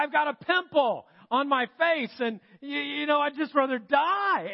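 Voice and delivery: mock whiny teen complaint; teenager. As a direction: overplay a teen's despair, lightly. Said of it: "Sounds like a teenager".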